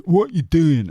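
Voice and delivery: loud, high mock butch voice; butch caricature, unplaceable accent. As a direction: holler it in an exaggerated, made-up butch accent. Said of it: "I don't know what accent that is".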